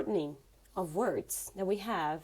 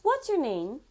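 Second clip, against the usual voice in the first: what's your name said higher and louder; higher, louder repeat; brighter take; 4 semitones higher, 4 dB louder than usual. Shown as a demonstration. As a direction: lift it up bright. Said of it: "let's take a look at how to say".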